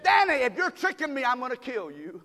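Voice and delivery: a hint of an angry wife; half-joking threat to her husband; mock threat. Wife scolding Danny for tricking her, mock threat. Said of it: "She said".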